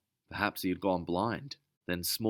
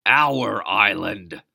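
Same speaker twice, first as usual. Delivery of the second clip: loud and very slow; angry shout; 2 semitones higher, 11 dB louder, much slower than usual. Acted. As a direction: stress on Our. Captain snaps back.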